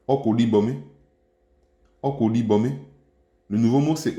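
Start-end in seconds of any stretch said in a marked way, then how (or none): 0.1-2.7 oko said on a high pitch. Shown as a demonstration. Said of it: "l'intonation du «o», ça va être en haut". (« oko » prononcé sur un ton haut)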